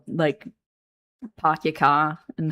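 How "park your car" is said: dropped-R Boston accent. Shown as a demonstration. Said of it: "it comes out more of a".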